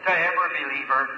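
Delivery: earnest pulpit prayer, swelling and easing; preacher's heartfelt prayer over the meeting; fervent prayer. Acted. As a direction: plead with God for the audience. Preacher leads the congregation in prayer.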